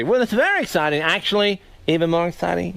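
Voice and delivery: a light take on Jay Leno's chatty host voice; Jay Leno impression. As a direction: slip into a mild Leno talk-show cadence. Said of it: "You do do a good Leno".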